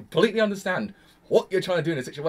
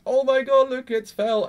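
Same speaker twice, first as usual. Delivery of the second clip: higher, louder excited greeting; excited Rom; 9 semitones higher, 7 dB louder, slower than usual. Retold or imitated. Rom spotting Felt, excited and loud. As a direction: burst out happy to see her. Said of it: "Rom comes in and just says".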